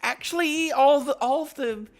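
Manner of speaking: lightly voiced smug writer; mocking imitation. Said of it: "they were like".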